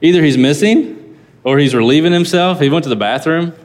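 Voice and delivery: mocking taunt. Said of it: "Elijah mocked them".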